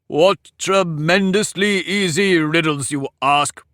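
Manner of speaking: slow, scornful growl in a high egg voice. A narrator's reading. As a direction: growl it out with contempt. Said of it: "Humpty Dumpty growled out".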